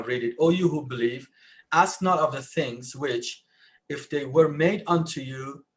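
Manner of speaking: ordinary delivery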